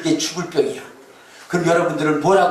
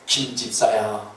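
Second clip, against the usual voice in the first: voice of God; 6 semitones lower than usual. Retold or imitated. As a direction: pronounce it as God, deliberately. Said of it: "그랬더니 하나님이 그랬어요".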